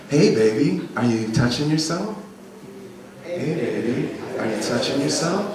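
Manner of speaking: smooth, gentle seductive question; low intimate register. Shown as a demonstration. Coach models line for students to repeat, low intimate register. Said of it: "I'm talking this register".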